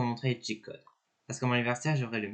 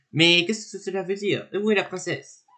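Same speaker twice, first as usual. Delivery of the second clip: Bowser voice; 5 semitones higher, 5 dB louder than usual. Acted. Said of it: "je fais les voix des personnages".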